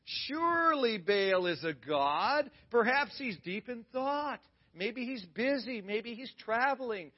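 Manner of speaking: high, slow, sneering voice; mocking taunt. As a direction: drag out the jeers to mock them. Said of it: "starts talking some smack".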